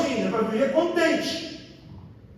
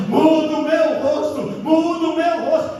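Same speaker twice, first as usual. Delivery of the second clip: fervent plea; 3 semitones higher, 3 dB louder than usual. Retold or imitated. Repeating his prayer to the Spirit.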